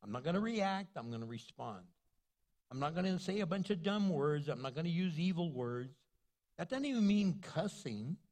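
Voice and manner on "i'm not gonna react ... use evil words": calm self-talk. Shown as a demonstration. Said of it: "Take a deep breath and say".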